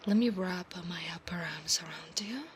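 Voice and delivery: hushed whisper. Acted. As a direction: whisper the promise close to his ear. Whispered roleplay.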